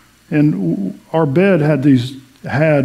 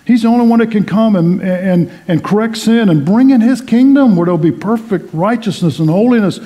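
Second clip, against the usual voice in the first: fervent preaching; 3 semitones higher than usual. Acted. Pastor urges the congregation that only Jesus fixes the world, fervent preaching. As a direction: preach it out, climbing with conviction.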